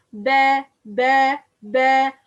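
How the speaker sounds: "ba" with a light, thin vowel, firmly repeated; light ba drill. Shown as a demonstration. Teacher drills step by step, light ba. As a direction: separate light "ba" syllables, each punched out. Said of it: "move from light letter to".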